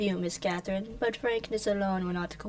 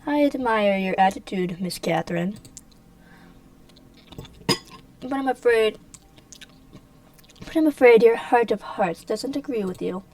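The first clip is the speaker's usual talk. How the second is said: menacing villain; 2 semitones higher, 7 dB louder than usual. Acted. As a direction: lean in with mock regret.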